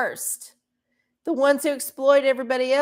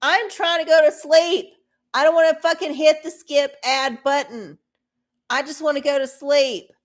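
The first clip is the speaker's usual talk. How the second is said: a bit louder and higher, exasperated; frustrated outburst; 4 semitones higher, 5 dB louder than usual. Retold or imitated. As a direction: vent as if woken at night. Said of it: "I'm like".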